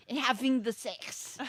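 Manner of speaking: hammed-up British accent; Russell Brand accent. Capping the movie dinner speech, mock British accent. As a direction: finish it off in a put-on British accent. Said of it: "That's my best accent".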